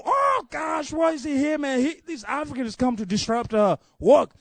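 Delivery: mock demon shriek of alarm; panicked screaming demons. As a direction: yell it like a rattled demon caught out. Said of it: "them demons are screaming".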